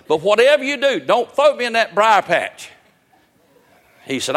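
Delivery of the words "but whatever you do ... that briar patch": frantic begging rabbit. Retold or imitated. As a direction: beg like your life depends on it. Rabbit's mock plea.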